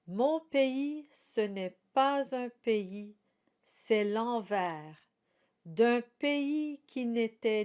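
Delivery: slow, careful recital of French verse; poem recitation. Shown as a demonstration. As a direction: read each line like a poem, unhurried. Recites song lyrics slowly.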